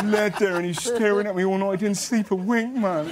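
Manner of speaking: grumble, still in his voice; imitating Will. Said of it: "He goes".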